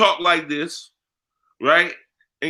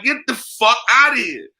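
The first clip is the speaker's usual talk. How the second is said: mock dismissal; 7 semitones higher than usual. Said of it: "I'd be like".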